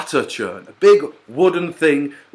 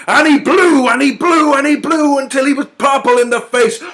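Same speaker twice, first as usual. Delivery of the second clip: rising, louder dramatic narration; building intensity; 12 semitones higher, 7 dB louder than usual. A narrator's reading. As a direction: build the tension to the peak. Narrator builds wolf blowing.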